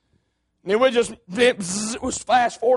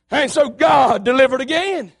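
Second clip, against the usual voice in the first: preaching refrain; 3 dB louder than usual. Acted.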